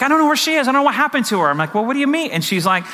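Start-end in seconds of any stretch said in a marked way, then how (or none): 0.0-1.5 high-pitched imitation of a panicked mother; retold hysterical. Husband retelling his wife's call about their lost child, mock hysterical. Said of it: "she's hysterical". 1.7-2.3 high-pitched acted disbelief; retold alarm. Husband retelling his reply to his frantic wife, acted alarm.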